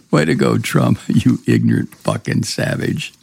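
laughing contemptuously through the insult; scornful laugh while speaking. Real, not acted.

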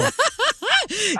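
high, breathy burst of laughter; laughing hard at the caller's joke. Real, not acted. Host cracks up at caller's joke, laughing high.

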